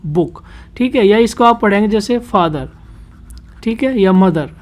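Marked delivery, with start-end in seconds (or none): 0.1-0.4 बुक as one unbroken syllable; said straight through. Shown as a demonstration. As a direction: say बुक in a single short go. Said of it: "आप इसको पढ़ेंगे सीधा". (बुक एक ही बार में सीधा)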